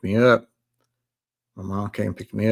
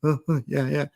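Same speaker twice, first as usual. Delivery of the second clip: imitated sobbing gasps, voice raised; mock-tearful, higher, barely getting words out; too choked to talk; 5 semitones higher than usual. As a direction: act out choked-up yeses between gasps. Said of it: "I couldn't even talk".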